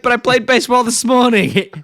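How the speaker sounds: high-pitched boy impression; Bart. Re-enacting the boy's objection, high mock-kid voice.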